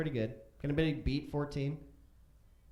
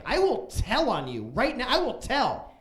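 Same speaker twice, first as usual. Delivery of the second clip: put-on childish threat; 7 semitones higher, 4 dB louder than usual. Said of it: "And I was like".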